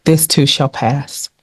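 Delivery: slow, quiet and soothing; a calm reassurance, slowed down; soft and simple. Shown as a demonstration. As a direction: let it land gently, word by word. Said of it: "So I'm gonna say simply".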